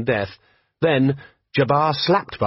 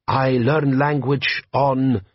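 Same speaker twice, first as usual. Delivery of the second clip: put-on slow, heavy-accented bandit chief; lightly voiced warlord, measured and proud; Jabbar, desert chieftain; 3 semitones higher, much slower than usual. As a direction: lean into a slow Klatchian drawl. Jabbar speaking.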